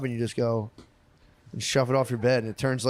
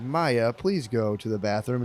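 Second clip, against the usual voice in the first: slow, even robot voice; 2 semitones lower, slower than usual. Retold or imitated. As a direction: speak like a calm household robot. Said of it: "we'll talk in a robot voice".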